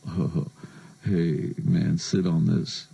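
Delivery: slow, dazed stoner mumble; stoned rock-guitarist impression. Retold or imitated. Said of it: "he's sitting on this bed going".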